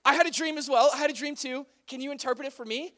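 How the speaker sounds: high, loud mock eagerness; really excited. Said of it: "He was, like, really excited".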